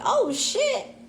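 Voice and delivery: high-pitched laughing "oh shit"; startled curse. Retold or imitated. To herself as the cops pull over, a startled laughing curse. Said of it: "I'm like".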